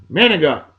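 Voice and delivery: "manigot" clipped the local way, like "MAN-ih-got"; Northeast manigot. Shown as a demonstration. Host telling listeners the Northeast way to say it: "manigot", clipped. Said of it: "we call it up in the Northeast".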